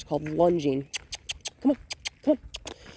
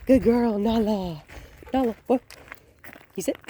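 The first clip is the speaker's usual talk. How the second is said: excited praise; 5 semitones higher, 4 dB louder than usual. Real, not acted. Calling the dog.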